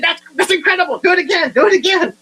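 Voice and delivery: high, overly impressed gushing; gushing fake wonder at a key card; mock amazement. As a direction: pretend to be dazzled by a simple trick.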